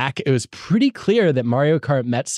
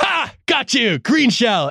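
put-on very high, loud, drawn-out gloating yell; 11 semitones higher than usual. Recalling trash talk during a weekly family game, retelling a shout. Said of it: "I'm like shouting".

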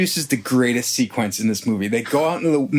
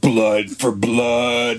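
put-on demonic voice; 2 semitones lower than usual. Retelling a story, the speaker quotes the cult members in a demonic voice. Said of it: "They're speaking this demonic voice".

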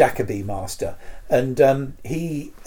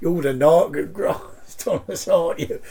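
put-on Cockney accent; 4 semitones higher than usual. Describing a bird that delivers post, Jon Pertwee Cockney impression. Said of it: "sounds just like John Pertwee doing a Cockney accent".

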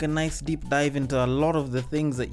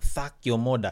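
put-on lisping Jamaican accent, slower; 3 semitones lower than usual. Imagining a jamaican with a lisp walking up to you, in a jamaican accent with a lisp. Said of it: "a Jamaican ... they have a lisp and they're like".

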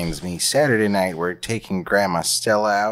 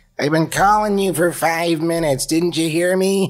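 put-on high-pitched Minnesota accent; 9 semitones higher, 4 dB louder than usual. Performing the script, Eileen calls from the kitchen to her son, in a Minnesota accent. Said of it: "I'm doing her with a Minnesota accent".

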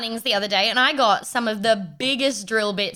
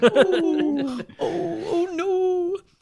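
high-pitched, helpless whimpering cries. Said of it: "I will just sort of go".

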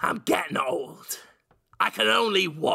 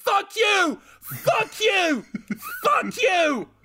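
mock, very high, drawn-out, swooping repeated yelling; 4 dB louder than usual. Retelling a scene where a man is being engulfed, acting out a yell. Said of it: "immediately starts yelling".

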